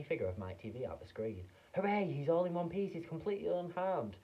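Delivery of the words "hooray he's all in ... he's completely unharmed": high, loud triumph; cheerful hooray. A narrator's reading. Wonka cheering.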